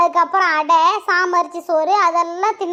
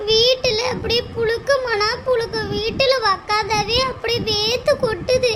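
crying complaint. Acted. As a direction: complain to mother while crying. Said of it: "எதுக்கு இப்படி அழுந்துட்டு வந்த?". (அழுதுகொண்டே முறையிடுதல்)

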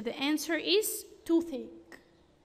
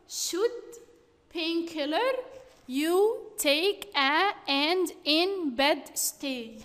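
slow, word-by-word reading of a jumbled sentence; scrambled words read out. Shown as a demonstration. Teacher reads the scrambled words to the class, slow and halting. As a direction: read each jumbled word apart, slowly. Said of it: "You should take a painkiller and stay in bed".

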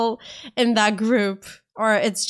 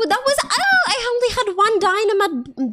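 laughing; 13 semitones higher, 5 dB louder than usual. Real, not acted. Laughing frustration.

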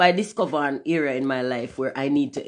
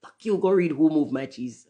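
mock snapping at followers; 3 semitones higher, 3 dB louder than usual. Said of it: "I be like".

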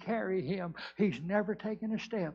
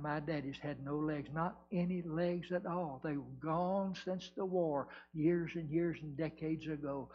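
low, soft, grave telling; hushed testimony of an old hurt; solemn recollection; 4 semitones lower, 6 dB quieter than usual. Acted. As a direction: tell it quietly and low, with pauses. Acted son recalls father's war wounds.

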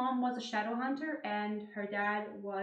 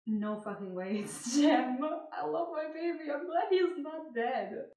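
giddy rising excitement, higher pitch; excited; 4 semitones higher than usual. Retold or imitated. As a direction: burst out with happy disbelief. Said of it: "I was just like".

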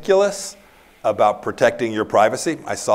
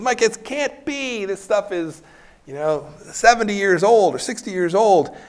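the president's voice; 9 semitones higher than usual. Retold or imitated. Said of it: "He says".

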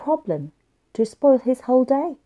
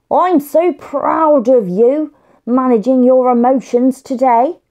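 proud dad; 6 dB louder than usual. Acted. Dad praises Josh at bedtime.

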